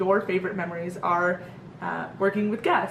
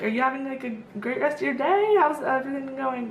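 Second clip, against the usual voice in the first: high, chirpy cast member greeting; retold customer-service friendliness; friendly small talk; 6 semitones higher than usual. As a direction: check in sweetly with a young guest. Acted friendly chat with a kid.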